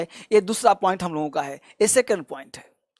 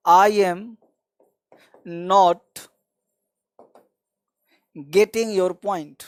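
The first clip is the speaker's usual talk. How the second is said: very slow with long pauses between words; slow demo; 3 semitones lower, much slower than usual. Shown as a demonstration. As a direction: spell the phrase out word by word. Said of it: "या बोल सकते हो आप". (रुक-रुक कर, बहुत धीमे)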